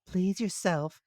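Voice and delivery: high squeaky ant character. Acted. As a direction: voice the ant as small and sensible. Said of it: "said Ant".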